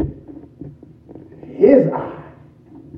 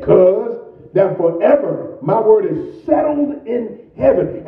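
fiery preaching; 9 semitones higher than usual. Acted. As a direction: preach it out with fire, cuz. Preaching at full force, high.

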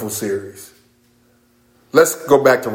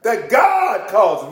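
"that God causes" slow, high and shouted, GOD hit hardest; preacher punching "God causes" at full force; stress on God causes; 6 semitones higher, much slower than usual. Shown as a demonstration. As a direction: hammer out "that God causes" word by word. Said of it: "I love the emphasis there".

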